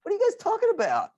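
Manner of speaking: put-on dad retelling his confused reply to the kids; mock confusion. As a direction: play the baffled dad. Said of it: "I'm like".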